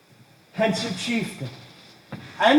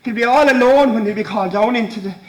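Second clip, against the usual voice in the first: rising agitation; 2 semitones higher than usual. Acted. Son raving about dying father.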